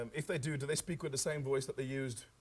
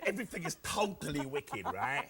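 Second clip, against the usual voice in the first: Cockney hustler. Acted. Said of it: "Delbert Wilkins talks like this".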